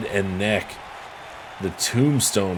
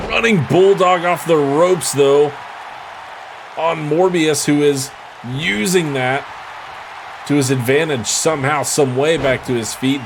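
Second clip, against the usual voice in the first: excited call; 4 semitones higher than usual. Real, not acted. Calling a running bulldog.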